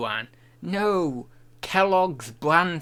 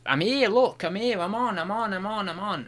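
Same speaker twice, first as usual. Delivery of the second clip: sing-song reassurance; 6 semitones higher than usual. Real, not acted. Checking mic to newcomer.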